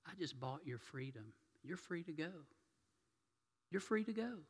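quietly gracious, kind words to a proud woman; soft, patient reassurance, lifting on the last line; softly voiced gentleman setting her free. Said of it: "looks at her with all the grace he can".

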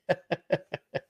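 a short soft laugh after the story; breathy little chuckle. Real, not acted. Streamer laughs softly at the caller's story.

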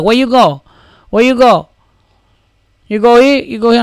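high, loud, mocking Latino accent. Latino airport staff directing a traveler, mock accent and yelling. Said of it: "Fucking Latino accents and shit".

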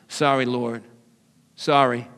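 low, soft mock-sheepish apology; contrite apology. Acts out apologizing to God.

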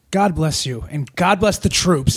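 mock-patriotic blessing, building and slowing; full-bore grandstanding. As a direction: grandstand it, drawing out the second blessing. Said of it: "going full bore with it".

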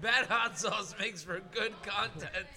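slow deliberate quote. Retold or imitated. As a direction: spell it out slowly. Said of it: "I said, I said".

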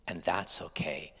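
hushed, slowed "that's okay"; gentle reassurance. Shown as a demonstration. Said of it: "repeated reassurance line".

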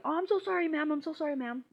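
lightly voiced dainty politeness; princess voice. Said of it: "my fucking princess voice".

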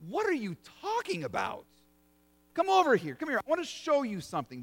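a light touch of an eager angel, calling over. Acted. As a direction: wave them over, excited. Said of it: "the angel says".

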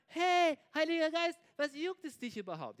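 high, loud call, easing off into a question; acted cheeky protest; mock challenge. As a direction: call someone out with pretend indignation. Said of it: "jetzt könntest du dich ja fragen".

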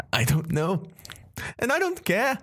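high, mocking sing-song villain; smug villain taunt. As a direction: taunt them with a smirk. GM voices Red Rider taunting.

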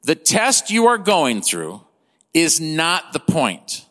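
slowed down, weighing each word of "is not the point"; slow emphasis. Shown as a demonstration. Preacher repeating "is not the point" slowly so it sinks in. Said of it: "I just wanna let that sink in".

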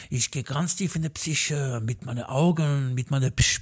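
whisper-lite mystical boast; mock hypnotist.

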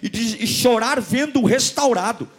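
impassioned, high-pitched pulpit delivery; fervent preaching. Real, not acted. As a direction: preach it with mounting fervour. Preaches with rising fervour.

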